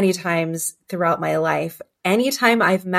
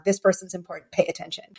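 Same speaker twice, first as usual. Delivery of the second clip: softer and softer inner voice; quiet fading warning; 6 dB quieter, faster than usual. Retold or imitated. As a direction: let it drop to a hush.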